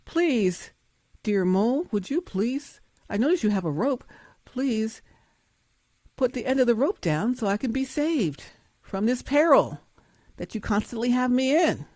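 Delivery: butter up the mole while dangling; mock polite plea. Cliff hanger sweetly begging the mole, mock polite plea. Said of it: "pushing you off a cliff".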